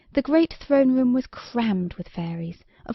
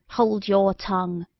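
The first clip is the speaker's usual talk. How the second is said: rude; slower than usual. Acted. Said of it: "most rudely".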